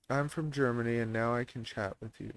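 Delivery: put-on German accent, low-key delivery. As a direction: chat like a German in accented English. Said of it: "I like to do German".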